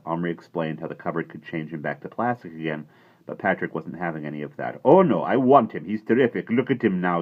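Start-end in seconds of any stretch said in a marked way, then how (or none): 4.8-7.2 put-on excited boy. A narrator's reading. Patrick wanting to keep cowboy.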